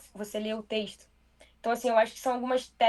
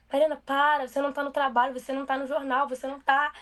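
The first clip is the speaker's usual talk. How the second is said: friends' teasing telling-off; 3 semitones higher than usual. Retold or imitated. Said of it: "os meus amigos ficam pra morrer comigo".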